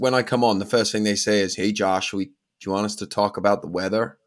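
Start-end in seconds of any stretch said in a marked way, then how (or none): 1.6-4.1 put-on American accent. Quoting what people in america always say first, in a put-on american accent. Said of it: "That was my American accent".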